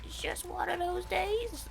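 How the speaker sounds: a botched impression of a band's singer; a singer attempt. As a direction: stretch the line like a failed singer impression. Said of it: "I can't do a Fred Durst".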